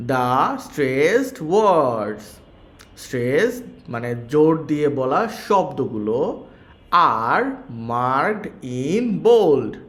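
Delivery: slow, careful reading to pupils; slow read-aloud. Shown as a demonstration. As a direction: read each English phrase slowly like a teacher. Reads English text slowly to class. (ধীরে ধীরে শিক্ষকের মতো পড়া)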